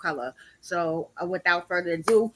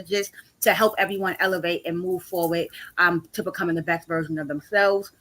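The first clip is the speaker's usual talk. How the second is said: slight lisp from dental work; swollen lip. Real, not acted. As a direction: talk through a swollen mouth. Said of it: "a little lisp 'cause my mouth is still swollen".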